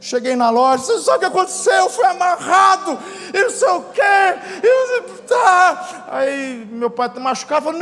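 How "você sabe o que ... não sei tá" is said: hammed-up hysterical report of an ordeal; outraged complaint. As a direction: wail the grievance at shouting pitch. Acted outraged report at the shop.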